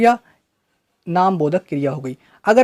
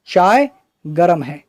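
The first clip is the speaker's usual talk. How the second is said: slow deliberate example; slower than usual. Shown as a demonstration. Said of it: "कहते हैं नहीं कहते हैं?".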